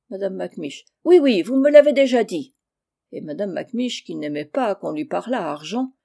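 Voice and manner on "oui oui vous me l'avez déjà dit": loud, high, impatient retort; exasperated. Acted. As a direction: snap back at the reminder. Aunt irritated by repeated reminder. (réplique agacée et impatiente)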